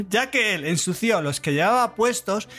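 a hint of a dignified lady; lightly voiced formal letter writer; man doing a woman's voice. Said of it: "Muy digno".

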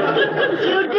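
high, laughing disbelief; surprised. Acted. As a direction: ask it half laughing. Disbelief at being trusted.

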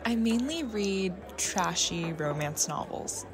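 hesitant confession. Retold or imitated. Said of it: "After a moment hesitation".

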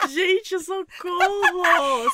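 high laughing, slowly begging for help; real laughing fit. Real, not acted. Cohost cracking up at the silly horror scene, helpless laughter. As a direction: laugh so hard you can barely speak.

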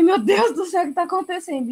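exclamação aguda de espanto; choque recontado. Retold or imitated. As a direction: reviva o susto num tom bem mais agudo. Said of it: "E eu chocada". (chocada, revivendo o espanto)

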